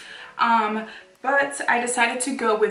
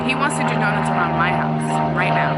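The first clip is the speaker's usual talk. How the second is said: raised voice over engine noise; louder, irritated complaint; 3 semitones lower, 7 dB louder than usual. Real, not acted. Complaining over loud car noise.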